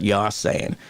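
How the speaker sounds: light Boston accent, "you're" without its r. Shown as a demonstration. Showing viewers his dad's speech, light Boston accent. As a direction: drop the r like a Bostonian. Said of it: "has a little bit of it".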